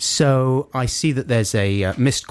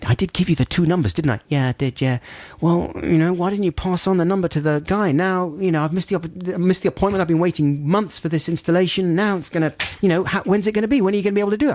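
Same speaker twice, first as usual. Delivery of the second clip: much higher exasperated complaint; lecturing the company man; retold fury; 8 semitones higher than usual. Complaining to the manager in high retold fury. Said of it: "threw my pen down in fury".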